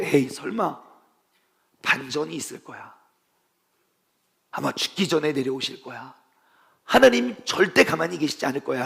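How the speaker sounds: low, soft inner voice of a believer; hushed hoping. Acted. Believers watching Jesus die tell themselves he will come down, hushed hoping. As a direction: murmur it to yourself, clinging to hope. Followers' secret last hope, voiced.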